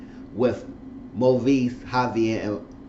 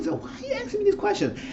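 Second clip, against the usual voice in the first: laughing mock question; 3 dB quieter, faster than usual. Mocking Zach's questions, laughing.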